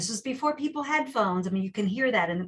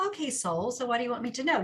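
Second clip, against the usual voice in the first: flippant; 3 semitones higher, faster than usual. Retold or imitated. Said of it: "Very flippantly like that".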